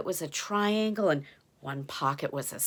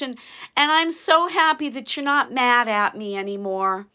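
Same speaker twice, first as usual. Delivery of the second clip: giant voice; 4 semitones higher, 6 dB louder than usual. A narrator's reading. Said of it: "And Og said".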